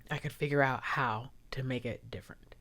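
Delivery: unvoiced, tearful whisper. Real, not acted. Wishing she could connect with viewers, whispering. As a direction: let the voice drop to a whisper.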